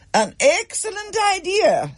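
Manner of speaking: high, crisp teacher approval; a clipped, unimpressed reply; strict teacher answering a cheeky pupil; dry schoolmistress. A narrator's reading.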